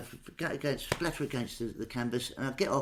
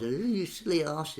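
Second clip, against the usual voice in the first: imitating Lord Charles; 3 semitones higher, slower than usual. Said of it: "dummy called Lord Charles".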